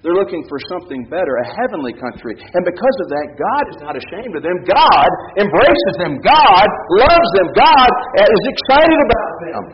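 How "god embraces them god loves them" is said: very slow, each word weighted; slow emphatic declaration. Acted. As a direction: hammer home God's love slowly. Preacher's slow emphatic climax.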